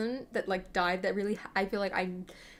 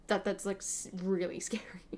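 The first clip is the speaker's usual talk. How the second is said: whispered laugh; 2 semitones lower, 5 dB quieter than usual. Real, not acted. Whispered, laughing, about ageing idols.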